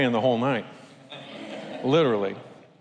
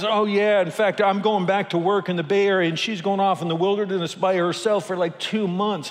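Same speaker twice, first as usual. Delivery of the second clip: higher, casual boast; imitating gnarly rafter; 5 semitones higher than usual. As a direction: toss it off like it's nothing.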